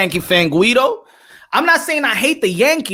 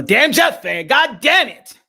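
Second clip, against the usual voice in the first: louder, exasperated outburst; shouted sports frustration; frustrated shout; 3 semitones higher, 5 dB louder, slower than usual. Real, not acted. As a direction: vent it like a fed-up fan. Frustrated fan venting.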